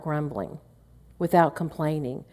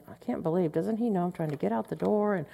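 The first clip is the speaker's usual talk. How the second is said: retold soft, exasperated muttering; imitating a private complaint; under-the-breath grumble; 7 dB quieter than usual. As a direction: grumble quietly so he won't hear. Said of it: "under my breath I'm going".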